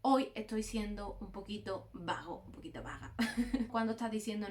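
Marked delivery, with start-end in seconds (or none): 0.0-3.1 lazy admission. Pretend. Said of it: "y cuándo decir".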